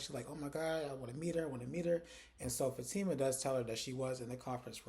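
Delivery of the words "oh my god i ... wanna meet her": mildly hyped retelling; lightly imitated excitement; super hyped. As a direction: act out a touch of fangirl eagerness. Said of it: "she gets super hyped".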